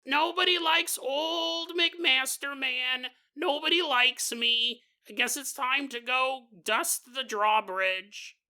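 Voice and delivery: slow, high, self-pitying in a bad British accent; moping servant in a hammed British accent; a sorry castle servant moping in a fake British accent; sad fake British accent. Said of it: "the worst accent possible".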